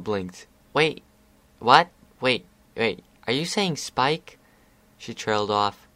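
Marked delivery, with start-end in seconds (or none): 0.7-4.4 put-on higher, startled young pony, slowing at the end; filly's sudden dawning worry; alarmed realization. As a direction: catch on with growing alarm.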